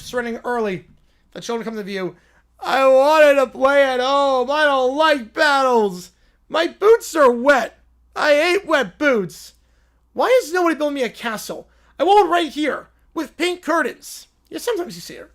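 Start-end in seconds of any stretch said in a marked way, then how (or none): 2.6-14.3 put-on whiny crying kid. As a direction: sob out complaints like a bored toddler. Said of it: "It sounds like crying".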